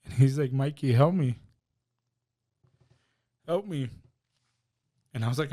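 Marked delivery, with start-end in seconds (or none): 0.5-3.9 loud, frightened call for help; panicked plea. Retold or imitated. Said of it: "he's panicking".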